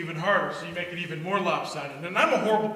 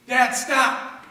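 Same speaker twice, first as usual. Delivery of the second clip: sharp loud cry of stop; yell stop; 5 semitones higher, 6 dB louder than usual. Retold or imitated. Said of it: "my daughter yells at me".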